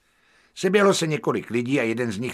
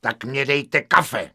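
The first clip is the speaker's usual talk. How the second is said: 1 mild yell; 2 semitones higher, 4 dB louder, slower than usual. Acted. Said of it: "křikl jsem".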